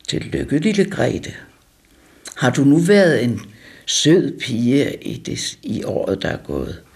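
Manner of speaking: lightly deepened voice of a stern Santa; deep voice. Retold or imitated. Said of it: "og sagde med dyb stemme". (let dybere julemandsstemme, lidt langsom)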